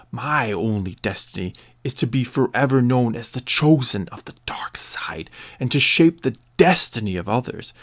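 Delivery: loud, seething dark lord's threat; angry Snoke. Acted. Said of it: "a look of anger darkening his face".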